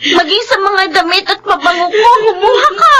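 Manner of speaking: the betrayed mistress finally snaps at the maid; angry accusation. Acted. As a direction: hurl the blame at her. Employer accuses thieving maid.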